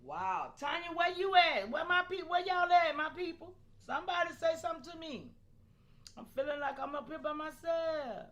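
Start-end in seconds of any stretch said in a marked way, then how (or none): 0.6-5.3 calling out. Real, not acted. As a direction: holler across the room for your people. Calling out to chat members.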